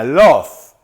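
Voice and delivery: "Love" ending on a V sound. Shown as a demonstration. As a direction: finish "Love" with the small V. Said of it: "Con V pequeña". ("Love" con V pequeña final)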